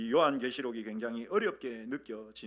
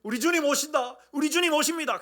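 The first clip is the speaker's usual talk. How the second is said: higher, joyful proclamation; "주님" stressed, much higher; excited announcing; 12 semitones higher, 6 dB louder than usual. Shown as a demonstration. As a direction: announce the Lord's coming with joy. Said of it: "이 말, 마라나타".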